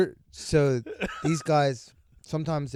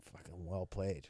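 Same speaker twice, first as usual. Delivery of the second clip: laughing mock praise; 6 semitones lower, 13 dB quieter than usual. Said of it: "I'd just be like".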